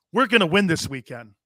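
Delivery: lightly put-on Southern accent; a touch of Southern in the quote. Host quoting coach McCarthy's win promise, light Southern accent. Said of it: "my Southern accent".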